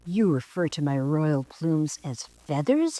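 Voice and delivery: offended squawk. Acted. Peacock offended by the girl's request, indignant squawk. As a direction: bristle at the word feathers. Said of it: "he squawked".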